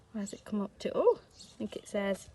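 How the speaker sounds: hushed, teasing reveal; suspense whisper. Pretend. Building suspense before the number.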